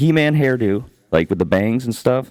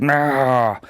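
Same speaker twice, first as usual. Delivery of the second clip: long, raised "naaah" cry; imitated road-rage yell; 4 semitones higher than usual. Driver stuck on the highway, mock road-rage yell. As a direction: mimic going crazy at the wheel. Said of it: "beeping and going crazy".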